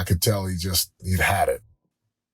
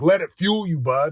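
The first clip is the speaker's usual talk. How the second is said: retold pep talk, pitched up and insistent; loud fatherly urging; 5 semitones higher than usual. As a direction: urge your son on, emphatically. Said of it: "I'm talking loud in the car".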